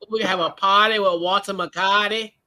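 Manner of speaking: playful mock Boston accent; imitation Boston fan accent. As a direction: broaden the vowels and drop R's like a Bostonian. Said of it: "that Boston accent".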